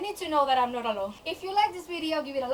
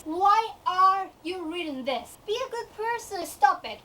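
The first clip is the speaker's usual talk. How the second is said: drawn-out, louder plea from the inner voice; scolding inner voice; 3 semitones higher, 5 dB louder than usual. Acted. Inner voice begs her to quit the book, scolding. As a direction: nag yourself to stop reading. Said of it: "this other voice saying".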